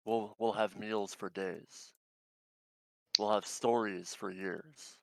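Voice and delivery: aggressive wolf. Acted. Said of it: "aggressive kind of wolf stance".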